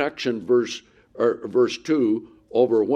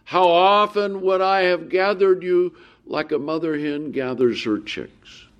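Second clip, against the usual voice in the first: Jesus lamenting; 3 semitones higher than usual. Acted. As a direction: mourn over the city, then let it sink. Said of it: "he says".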